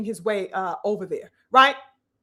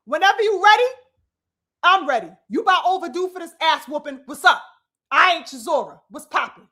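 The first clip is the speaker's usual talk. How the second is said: mock challenge; 2 semitones higher than usual. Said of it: "say something like".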